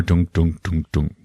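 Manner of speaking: soft, low thuds; fading mouth-made beats; imitated heartbeat. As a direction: thump softly like a heart.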